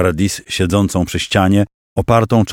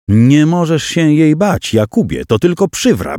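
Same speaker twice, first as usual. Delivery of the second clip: much higher female voice, urging; female voice in his head; 8 semitones higher than usual. A narrator's reading. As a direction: push him on like a woman inside his head. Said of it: "odezwał się kobiecy głos". (kobiecy głos w głowie zachęca Jakuba, dużo wyżej)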